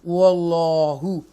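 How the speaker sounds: वल्लाहु said loud and slow with a broad, full-mouth heavy l; tafkheem: a heavy full-mouth वल्लाहु; bold, heavy Allah. Shown as a demonstration. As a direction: fill the mouth and say वल्लाहु strongly and heavily. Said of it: "वल्लाह bold पढ़ेंगे".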